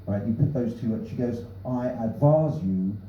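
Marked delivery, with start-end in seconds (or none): 1.7-3.0 badly imitated South African air hostess; hammy attempt at South African English; South African accent. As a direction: put on a rough South African accent for a cabin announcement. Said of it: "it's a terrible accent".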